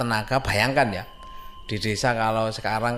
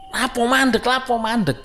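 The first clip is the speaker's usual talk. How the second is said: much higher and louder, startled asking; alarmed question; 13 semitones higher, 6 dB louder than usual. Retold or imitated. Friend asks in Javanese why they stopped, much higher and louder in alarm. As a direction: blurt it out in a panic. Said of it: "Dan tanya".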